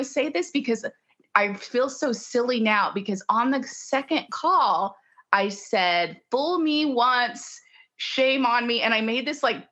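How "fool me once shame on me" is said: wry. Retold or imitated. Quoting her own line.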